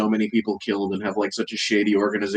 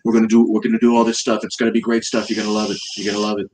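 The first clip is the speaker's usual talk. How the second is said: lightly voiced Trump, boastful and repetitive; Trump impression. Mocking Trump for a friend, lightly voiced boastful Trump. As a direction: praise everyone like a salesman president. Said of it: "I would think it was him".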